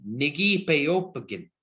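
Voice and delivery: "Nigipeopagan" said slowly, syllable by syllable; slow model word. Shown as a demonstration. Teacher modelling the word slowly for learners. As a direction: draw out "Nigipeopagan" evenly. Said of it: "try put it all together and say".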